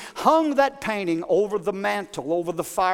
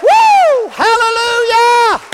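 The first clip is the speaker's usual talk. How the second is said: much higher and louder, shouting hallelujah; joyful praise; 13 semitones higher, 9 dB louder than usual. Real, not acted. Preacher exulting to the congregation, ecstatic shout. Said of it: "preacher's climax".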